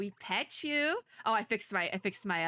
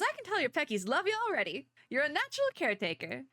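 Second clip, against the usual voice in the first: bad Southern accent; 4 semitones higher, faster than usual. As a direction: read it as a folksy Southerner, badly. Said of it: "the really bad Southern accent".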